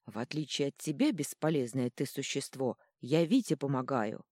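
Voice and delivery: ordinary delivery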